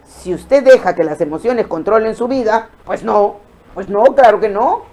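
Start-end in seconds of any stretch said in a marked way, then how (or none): none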